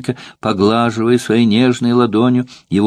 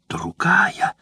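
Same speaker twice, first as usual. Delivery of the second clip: a higher, mock-furious cry; furious exclamation; 9 semitones higher, 4 dB quieter than usual. Jealous courtesan raging at her rival, higher cry. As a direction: spit the word out in jealous rage. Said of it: "воскликнула она в ярости".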